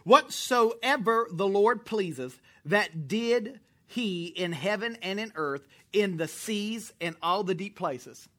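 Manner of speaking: slow, deliberate Bible reading; slow scripture reading. Acted. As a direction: read the verse slowly, word by word. Reads scripture aloud slowly.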